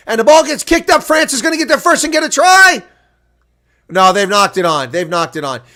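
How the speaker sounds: indignant play-by-play; outraged excited commentary. Acted. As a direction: call out the injustice live. Outraged call of offside play.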